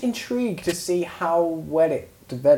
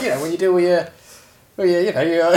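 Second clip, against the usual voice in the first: put-on kid's fumbling voice; 3 semitones higher, 5 dB louder than usual. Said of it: "'Cause he was like".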